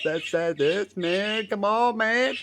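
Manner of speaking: high, loud rising panic; panicked screaming plea. Retold or imitated. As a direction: beg the bird to let go, voice climbing. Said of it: "screaming my head off".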